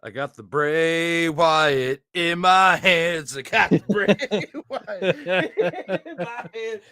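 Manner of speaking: giggling through the words; laughing. Real, not acted. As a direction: laugh while saying it. Laughing while repeating.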